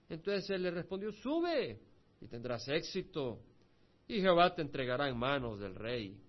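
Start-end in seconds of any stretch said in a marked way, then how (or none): 1.1-6.2 mocking jump up on Sube, then slow and drawn out; sarcastic. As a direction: fake agreement dripping with irony. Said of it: "O sea, está siendo sarcástico".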